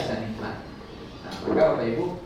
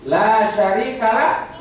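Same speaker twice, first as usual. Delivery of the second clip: recited Arabic; 9 semitones higher, 9 dB louder, much slower than usual. Shown as a demonstration. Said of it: "dan tiada sekutu bagimu".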